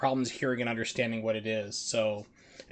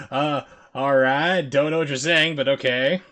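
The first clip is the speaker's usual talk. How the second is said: confused coach; 7 dB louder than usual. Retold or imitated. Streamer voicing the puzzled coach in the clip, loud bafflement. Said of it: "He's like".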